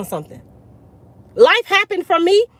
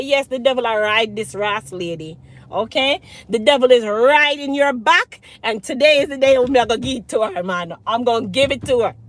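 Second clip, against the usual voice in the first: light Jamaican patois, fast and punchy; 3 semitones lower than usual. Real, not acted. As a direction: slip into Jamaican patois, self-talk firing up. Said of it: "Let me turn off the patois".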